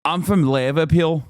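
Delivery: exaggerated, put-on Liverpool Scouser accent; hammed-up Scouser lad from Liverpool; Scouse accent. Shown as a demonstration. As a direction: do a broad comic Scouse impression. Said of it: "what the Scouser accent sounds like".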